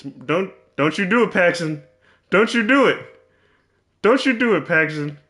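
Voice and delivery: exasperated don't you do it; pleading yell at the screen. Real, not acted. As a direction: beg him not to do it. Yelling at game player.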